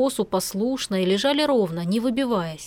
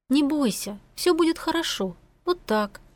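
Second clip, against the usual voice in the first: calm her down gently; soothing; 5 semitones higher than usual. Acted. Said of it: "бормотать что-то успокаивающее".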